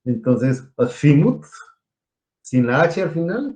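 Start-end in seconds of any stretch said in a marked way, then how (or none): 0.8-1.4 "azimut" with a Castilian th for the z; pronounced with Z. Shown as a demonstration. Teacher offering the class another pronunciation, Castilian Z. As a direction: lisp the z in azimut, as in Spain. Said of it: "si la quieren pronunciar con Z".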